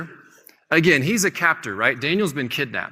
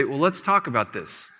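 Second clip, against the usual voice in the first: calm. Retold or imitated. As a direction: answer the threat as if nothing rattles you. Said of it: "very calmly".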